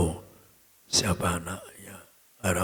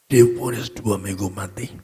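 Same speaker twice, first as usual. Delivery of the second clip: loud proclamation; 9 dB louder than usual. Acted. Preacher dramatizes death sentence.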